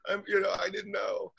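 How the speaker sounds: high, simpering mock apology; fake apology. Salon owner apologizing to the American, simpering high apology. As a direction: gush a sugary fake sorry. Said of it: "And she's like".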